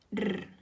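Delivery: R said as a strong, drawn-out rolled Spanish sound. Shown as a demonstration. Teacher showing students how the strong sound is written, rolled R. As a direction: roll the R strongly and slowly. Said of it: "El sonido fuerte R".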